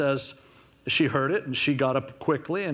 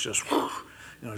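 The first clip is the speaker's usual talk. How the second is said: workhorse snort; 5 semitones lower, 5 dB quieter, much slower than usual. Shown as a demonstration. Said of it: "that word groan is like the snort of a workhorse".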